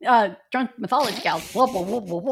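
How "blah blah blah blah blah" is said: sing-song. Shown as a demonstration. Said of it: "Are you trying to sing song like me?".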